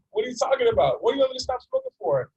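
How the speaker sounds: father startled by daughter's plea. Retold or imitated. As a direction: ask in alarmed disbelief.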